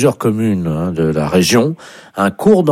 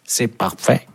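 soft mock English accent; put-on English caller; 5 dB quieter than usual. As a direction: praise softly as an Englishman. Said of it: "vous serez appelé par un Anglais". (faux accent anglais, plus doux)

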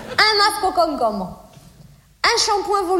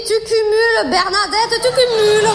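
self-pep talk; 5 semitones higher, 4 dB louder than usual. Retold or imitated. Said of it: "Je me suis dit".

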